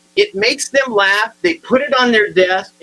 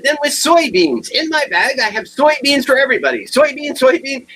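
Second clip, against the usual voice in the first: higher-pitched, playful hawking; theatrical, raised-pitch enthusiasm; eager mock offer; 6 semitones higher than usual. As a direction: offer them grandly to everyone. Absurd counteroffer of soybeans as payment.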